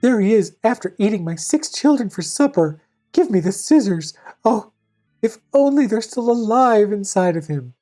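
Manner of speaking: mother goat. Acted. Mother goat laments over sleeping wolf.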